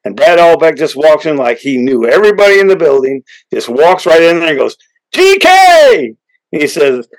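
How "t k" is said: high, loud call across the room. Retold or imitated. Brad Albeck shouting across the backstage room to Toby, high loud greeting. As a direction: hail him like an old buddy.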